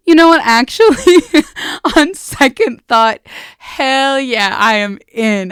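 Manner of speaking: hammed-up bold change of heart; brash, exclaimed turnaround; Isabel voice. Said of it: "That's such Isabel behavior".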